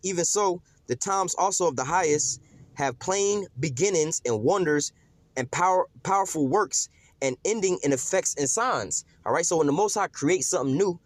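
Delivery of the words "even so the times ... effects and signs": slow scripture reading. Acted. Reading verse six.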